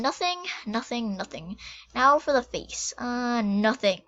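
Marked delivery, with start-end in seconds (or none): 0.0-1.6 fading out. Real, not acted. Repeats word, fading away.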